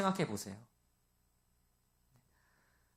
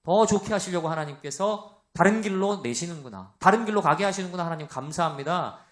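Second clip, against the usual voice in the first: grateful prayer. Retold or imitated. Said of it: "이게 아니라".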